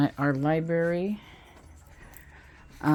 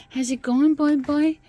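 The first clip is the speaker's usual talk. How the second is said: high pet-talk greeting; 12 semitones higher, 7 dB louder than usual. Real, not acted. Owner greeting her cat in high baby talk. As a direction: coo up high at the kitty.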